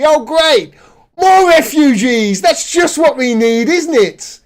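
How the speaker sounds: mock-delighted outburst; heavy sarcasm, drawing out the complaint; sarcastic. Real, not acted.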